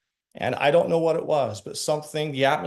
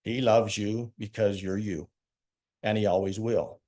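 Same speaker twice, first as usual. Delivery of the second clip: retold heartfelt assurance; 4 semitones lower than usual. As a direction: reassure him gently, like you mean every word. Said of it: "with all the belief I had in my heart".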